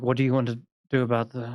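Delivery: quiet muttering under the breath. Voicing tieflings who talk in secret among themselves: talking under their breath. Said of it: "talking kind of under their breath".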